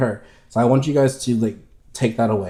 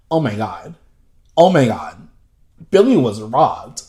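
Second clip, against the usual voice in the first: builds to a much higher, louder panicked shriek; hammed-up meltdown over Billie being robbed; mock hysterical fan; 4 semitones higher, 7 dB louder than usual. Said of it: "He was like".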